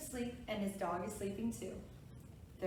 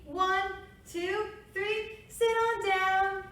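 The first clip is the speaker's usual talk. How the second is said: high, slow counting down; kindergarten teacher voice; 10 semitones higher, 7 dB louder, much slower than usual. Real, not acted. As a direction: draw out the count. Counting kids back down.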